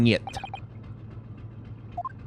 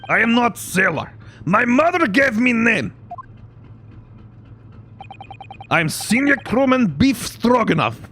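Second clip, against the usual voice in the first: put-on Russian accent; 6 semitones higher than usual. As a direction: announce it proudly in a booming Russian voice. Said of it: "Russian accent when I'm trying to do that voice".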